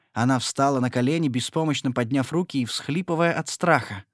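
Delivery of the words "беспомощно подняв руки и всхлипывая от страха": ordinary delivery, nothing marked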